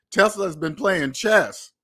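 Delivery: Tesla's been playing chess, slowed right down and stressed; slow emphatic. Real, not acted. Closing his point to viewers, slow emphatic. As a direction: hammer the line home slowly.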